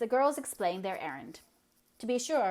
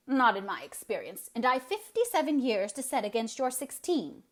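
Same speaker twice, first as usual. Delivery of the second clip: louder tart comeback; tart retort; 4 semitones higher, 5 dB louder than usual. Acted. Eliza tartly retorting to sixteen-year-old Anne. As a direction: put her down with years. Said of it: "retorted Eliza".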